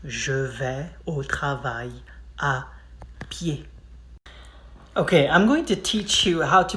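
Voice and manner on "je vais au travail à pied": slow, word by word, fading at the end; slow classroom drill, trailing off; slow drilled repeat. Shown as a demonstration. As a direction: spell it out slowly so they can copy. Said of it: "So say".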